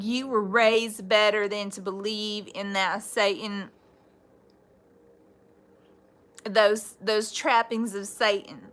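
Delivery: put-on relayed line in a country accent. Reader relaying a scolding message heard from spirit, country accent. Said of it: "a very country accent".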